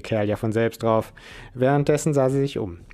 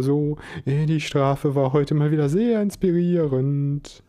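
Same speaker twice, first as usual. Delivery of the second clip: lightly voiced eager nerd, higher; a hint of a gushing young man; awkward nerd Chris; 4 semitones higher than usual. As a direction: let him ramble, pleased with himself.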